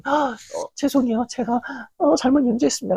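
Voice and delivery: timid apology. Retold or imitated. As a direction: stammer out a sorry like a scolded player. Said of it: "그랬더니".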